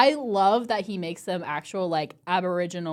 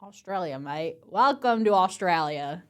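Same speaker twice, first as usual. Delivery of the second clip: tentative Aussie accent trigger phrase; Australian accent. Shown as a demonstration. Co-host tests a trigger word to find the Australian accent. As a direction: feel your way into an Australian accent. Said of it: "kinda triggers their, like, accent?".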